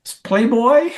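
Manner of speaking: high-pitched, cracking up; laughing punchline. Retold or imitated. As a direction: deliver the sheepish answer through rising laughter.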